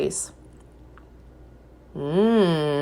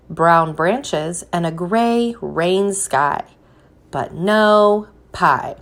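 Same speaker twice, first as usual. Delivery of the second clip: gentle storybook reading with a drawn-out refrain; picture-book read-aloud voice; reading to children; slower than usual. Acted. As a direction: read it to a class of little ones.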